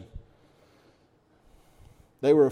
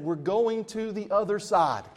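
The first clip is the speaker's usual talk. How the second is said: firm declaration; 5 semitones higher than usual. Retold or imitated. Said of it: "Jesus has said".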